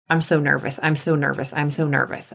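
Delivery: nervous self-talk. Shown as a demonstration. Nervous group repeating their worry, low and soft. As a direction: mutter it like a worried test-taker. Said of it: "supposed to do those three tasks while thinking".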